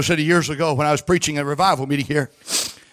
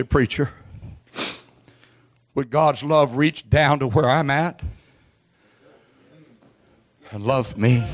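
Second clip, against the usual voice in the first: hesitant question. Acted. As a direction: voice a doubter asking the preacher, haltingly. Voices a doubting sinner's question.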